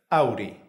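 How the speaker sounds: "Auri" with the R tapped just once; single-tap R. Shown as a demonstration. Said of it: "Para practicar la R simple".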